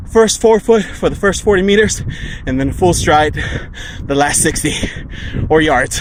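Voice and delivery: loud, high, pumped. Real, not acted. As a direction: hype yourself up. Pumped before last sprint.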